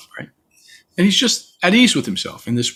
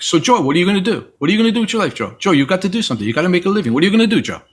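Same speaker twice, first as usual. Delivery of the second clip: high, pushy parent voice, pitched up; badgering their son about his future; worried parents pressing Joe; nagging parents; 7 semitones higher, much faster than usual. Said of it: "They're like".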